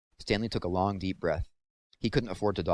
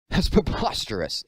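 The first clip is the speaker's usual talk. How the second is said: slow, loud, much higher outburst; indignant exclamation; 8 semitones higher, 6 dB louder, slower than usual. A narrator's reading. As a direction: spit the word out in outrage. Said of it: "exclaimed Igor".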